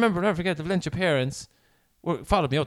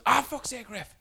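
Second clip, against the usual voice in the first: high-pitched exasperated player's complaint; imitating an indignant player; mock protest; 9 semitones higher, slower than usual. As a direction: moan at the referee in a raised pitch. Acts out players protesting a decision.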